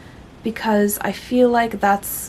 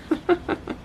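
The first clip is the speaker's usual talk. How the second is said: giggle; 9 semitones higher, 5 dB quieter than usual. Real, not acted. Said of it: "I'm a little loopy".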